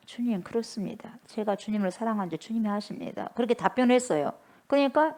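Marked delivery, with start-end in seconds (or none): 0.1-3.3 subdued, softer voice; humble reply. Acted. Peter answering the Lord's question, humble and subdued. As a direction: answer meekly and quietly.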